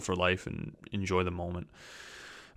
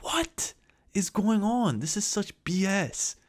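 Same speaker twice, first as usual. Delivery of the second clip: much higher, squeaked disbelief; squeaky outrage; 12 semitones higher, slower than usual. Retold or imitated. Retelling PayPal shock in a high squeaked disbelief. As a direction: screech it like you can't believe it. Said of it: "I'm like".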